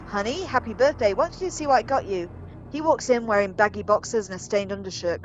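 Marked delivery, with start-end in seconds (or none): 0.1-2.3 lightly voiced wife calling to her husband; mildly singsong birthday call. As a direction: call sweetly through the house, a little raised. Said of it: "walks to the door and calls".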